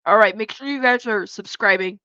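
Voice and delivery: talking around ice cubes; ice in mouth. Real, not acted. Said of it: "Sorry, I have ice in my mouth".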